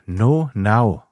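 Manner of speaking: "No", then "Now", shown for pronunciation; pronunciation demo. Shown as a demonstration. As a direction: say "No Now" as two clearly separate English words. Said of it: "wird's ausgesprochen".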